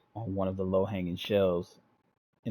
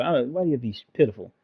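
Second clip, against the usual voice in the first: mock complaint; 4 semitones higher, 3 dB louder, much faster than usual. Real, not acted. Reader mocks story text.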